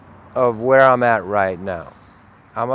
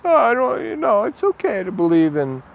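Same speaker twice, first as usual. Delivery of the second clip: mock relativist; 8 semitones higher than usual. Mocking a relativist view.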